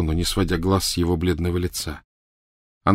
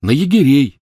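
repeated; 7 semitones higher, 7 dB louder than usual. Acted. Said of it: "повторил Рон".

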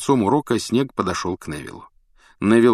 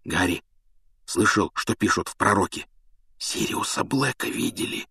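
anxious; 4 dB quieter than usual. Acted. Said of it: "с тревогой сообщил он".

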